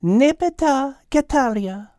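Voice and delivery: put-on measured French-accented pronouncement; calm, certain. A narrator's reading. Mademoiselle answers the groveling Al, calm and certain. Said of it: "with a calm, certain voice".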